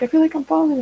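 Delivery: waking mid-fall and wondering aloud; confused. Retold or imitated. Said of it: "I wake up and I'm like".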